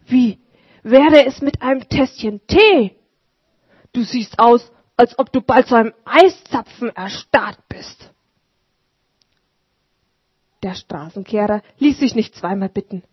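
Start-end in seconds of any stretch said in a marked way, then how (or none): 0.1-8.1 raised, warm invitation; lightly voiced friendly host; kindly old Martin. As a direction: offer tea to a frozen man.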